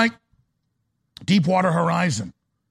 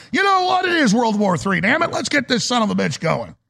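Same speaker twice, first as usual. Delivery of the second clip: shouting; 4 semitones higher than usual. Real, not acted. Outburst about war.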